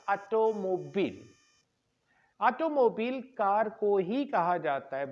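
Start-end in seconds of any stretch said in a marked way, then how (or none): 0.1-1.2 automobile said slowly, aw-toh-moh-beel; teacher modelling automobile; automobile pronunciation. Shown as a demonstration. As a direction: spell out automobile syllable by syllable. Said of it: "Actual, you know, pronunciation is".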